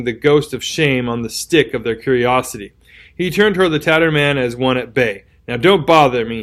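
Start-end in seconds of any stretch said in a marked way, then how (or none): 5.5-6.4 desperate menace. Acted. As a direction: warn him off, desperate and dangerous. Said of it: "he repeated with desperate menace".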